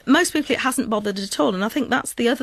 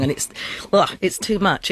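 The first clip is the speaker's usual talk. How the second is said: ordinary talk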